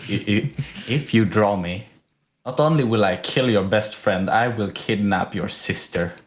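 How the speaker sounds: low, mock-menacing threat; dead serious. Art teacher escalating his threats to the student, dead serious. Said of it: "he stared me dead in the eye".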